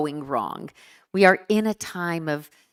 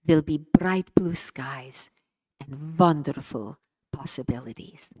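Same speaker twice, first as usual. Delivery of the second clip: put-on Hungarian accent. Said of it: "in his inimitable Hungarian accent".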